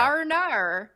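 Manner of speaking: letters blended into Australian; Australian accent. Shown as a demonstration. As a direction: show off the Australian-sounding trick. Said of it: "an Australian accent".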